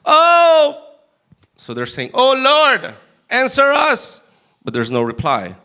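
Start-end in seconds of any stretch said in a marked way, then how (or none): 0.0-0.8 high, loud wailing "Oh!"; mock cry to Baal. Prophets of Baal crying out to their god, loud wail. 2.1-4.2 high, loud pleading call; shouting prayer. Acted. Prophets of Baal shouting for an answer, loud pleading.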